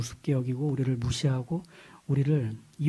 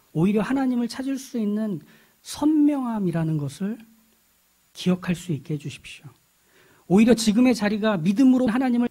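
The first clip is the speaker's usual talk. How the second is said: pleading prayer that lifts in pitch; earnest prayer; 4 semitones higher than usual. Real, not acted. Pastor asking God for faith amid weakness, earnest prayer. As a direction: pray aloud, building from measured to fervent.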